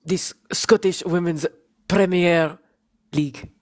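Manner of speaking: halting put-on Spanish accent; mock Colombian Spanish, word by word with pauses. Shown as a demonstration. Podcaster obliging co-host's request, put-on Spanish accent. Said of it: "say that in Maya Ramirez".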